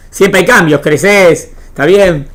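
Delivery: usual speaking voice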